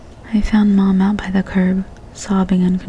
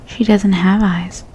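matter-of-fact; slower than usual. Acted. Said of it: "he said matter-of-factly".

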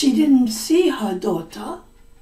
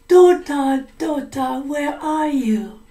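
calling out; 4 semitones higher, 4 dB louder than usual. Acted. Witch calls for her daughter.

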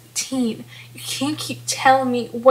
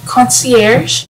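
surprised echo; 9 dB louder than usual. Acted. Startled at being called concierge.

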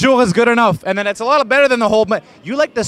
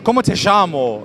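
Argentinian accent. Shown as a demonstration. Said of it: "What do they say?".

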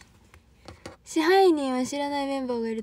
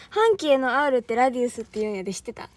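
proud and happy. Real, not acted. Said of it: "めっちゃ嬉しそうに言うやん".

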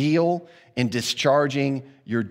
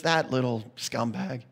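muttered insult; 3 semitones lower, 6 dB quieter than usual. Retold or imitated. Insult after boss leaves.

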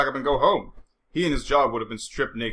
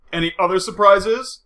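slow, wary question; suspicious; 6 semitones higher, 6 dB louder, slower than usual. A narrator's reading. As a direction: probe warily, expecting bad news. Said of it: "he asked suspiciously".

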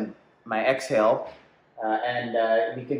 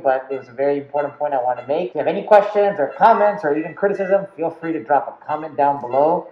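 muffled through layered masks; speaking behind face shield; 3 semitones higher, 4 dB louder than usual. Real, not acted. Seen 5: Purple surgical mask over white mask, plus face shield throughout.

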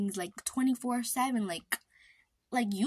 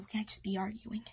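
whispered aside; 6 dB quieter than usual. Real, not acted. Aside during sibling squabble.

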